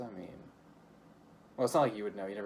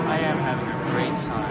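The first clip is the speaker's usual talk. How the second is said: sarcastic; 8 dB louder than usual. Acted. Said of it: "You're being really sarcastic".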